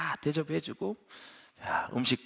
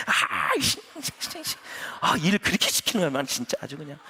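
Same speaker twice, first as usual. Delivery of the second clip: mock staff grumble. Imitating staff complaining.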